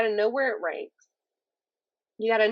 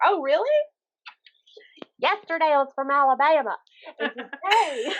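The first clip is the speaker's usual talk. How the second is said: sarcastic disbelief; 5 semitones higher, 3 dB louder than usual. Retold or imitated. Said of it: "And I'm like".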